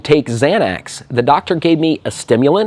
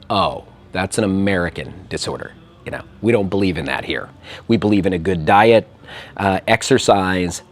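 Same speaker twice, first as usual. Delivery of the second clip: lower, softer, matter-of-fact doctor voice; dismissive doctor; 5 semitones lower, 4 dB quieter than usual. Retold or imitated. Serbian doctor to American patient, low soft dismissive voice. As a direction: brush the diagnosis aside calmly.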